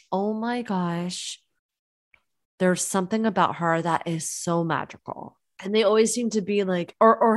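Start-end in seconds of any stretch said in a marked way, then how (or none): 0.1-5.4 lightly mock a smitten admirer; dreamy awe. People admiring magnetic person.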